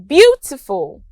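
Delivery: "beautiful" stressed on its first syllable; stress on BEAU. Shown as a demonstration. Teacher showing word stress, "beautiful" weighted on beau. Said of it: "The stress is on beau".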